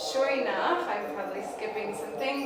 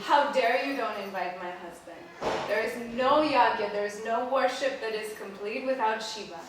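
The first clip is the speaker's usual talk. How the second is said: acted indignation, hitting NO hard; indignant outburst; 5 dB louder than usual. Wife rebukes her father for snubbing her husband, indignant. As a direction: confront him with loud, rising indignation.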